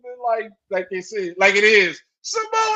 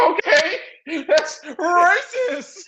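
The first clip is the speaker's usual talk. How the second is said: laughing; 4 semitones higher, 6 dB louder, much slower than usual. Real, not acted. Reacting to Cole's call.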